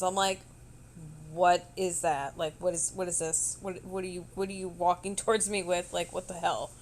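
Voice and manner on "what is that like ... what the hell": baffled. Retold or imitated. Retold baffled questioning.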